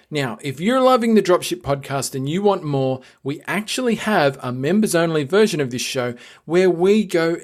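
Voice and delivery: lively scripted host read with stressed key words; podcast promo read. Real, not acted. Host urging listeners to join, scripted promo read. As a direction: read it as an upbeat, measured plug.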